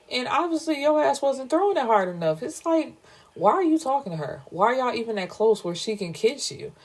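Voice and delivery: high, fast, exasperated rant. Real, not acted. Ranting at the boyfriend while retelling the story, exasperated. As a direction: fire off indignant questions at him.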